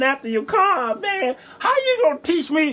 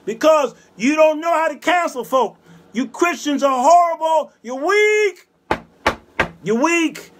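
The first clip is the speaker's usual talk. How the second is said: preacher scolding churchgoers for being weak, raised voice; scolding shout; 5 semitones higher than usual. Real, not acted. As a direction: berate the congregation.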